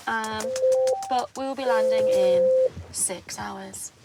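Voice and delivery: lightly voiced cockpit announcement to passengers; a hint of a captain on the intercom; airline pilot voice. Shown as a demonstration. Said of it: "Do your pilot impression".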